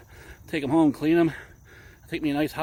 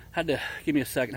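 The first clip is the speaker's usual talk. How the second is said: out of breath; faster than usual. Real, not acted. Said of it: "I'm out of breath".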